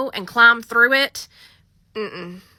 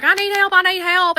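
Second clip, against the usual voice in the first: higher, frantic repeated plea; mock panic; 7 semitones higher than usual. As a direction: imitate a caller panicking for help. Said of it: "But she is freaking out".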